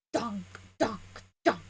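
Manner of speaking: soft mouthed dunk dunk noises; imitating a clunk. Shown as a demonstration. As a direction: mimic heavy armour clunking. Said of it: "you can hear the".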